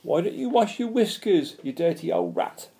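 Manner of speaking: high-pitched heckle; cheeky creature's mocking call; shouted taunt. A narrator's reading. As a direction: shout the insult from afar, starting high. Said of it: "shouted a third".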